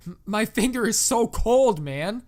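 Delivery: loud, high, overwrought complaint; panicked caller. A narrator's reading. Young man tells the operator about his cold finger, overdone panic. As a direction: wail it like a drugged kid in distress.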